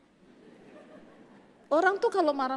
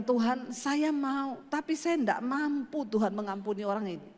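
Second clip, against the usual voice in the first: tearful plea; 2 semitones lower, 4 dB quieter than usual. Retold or imitated. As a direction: plead to God through tears. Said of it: "saya bilang". (doa memohon sambil menangis pelan)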